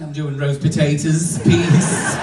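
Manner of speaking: mock Spanish accent, lightly put on. Magician answers the security guard, in a Spanish accent. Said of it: "in her best Spanish accent saying".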